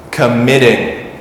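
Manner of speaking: "committing" stressed on MIT, falling after; stress on second syllable. Shown as a demonstration. Teacher giving the doubled-letter example, MIT stressed in "committing". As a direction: say com-MIT-ting for "committing". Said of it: "if the stress is on the second".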